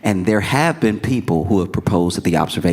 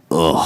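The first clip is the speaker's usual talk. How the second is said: short exasperated "ugh"; disgusted groan; 3 semitones lower than usual. Retold or imitated. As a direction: groan like a fed-up crowd. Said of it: "everyone saw that and went".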